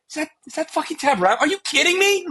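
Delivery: high, incredulous mock shock; a hammed-up opposing player spotting a star; imitating a starstruck opponent. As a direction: gasp it out like you can't believe who's warming up.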